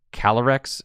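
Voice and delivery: Calyrex with a small rolled pause in the middle; little roll mid-name. Shown as a demonstration. Caster demonstrating the hardest Pokemon name, Calyrex with a little middle roll. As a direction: say Calyrex as "Cal-uh-rex", lightly rolled. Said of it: "there's, like, a little roll or pause in the middle".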